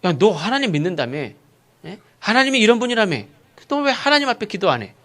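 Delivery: society scolding the church; rebuking. Acted. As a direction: challenge a believer indignantly. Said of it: "사회로부터 책망을 받아요".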